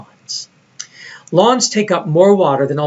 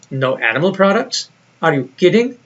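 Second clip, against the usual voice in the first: incredulous. Retold or imitated. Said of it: "they asked with incredulous smiles".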